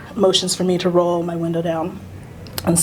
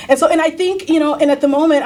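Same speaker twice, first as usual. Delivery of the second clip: reliving fear; 8 semitones higher, 4 dB louder, faster than usual. Real, not acted. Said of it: "I'm terrified".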